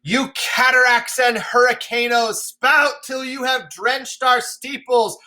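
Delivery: defiant storm-shouting king; screaming at the heavens. Acted. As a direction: rail at the sky with everything. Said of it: "So he's screaming at the heavens".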